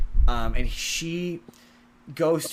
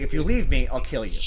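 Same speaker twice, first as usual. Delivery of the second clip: a louder, offhand threat that sounds half like a joke; joking-toned threat; 5 dB louder than usual. Retold or imitated. Husband threatening wife who wants to leave, louder half-joking threat. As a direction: toss the threat out lightly, but mean it. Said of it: "it has the tone of being a joke".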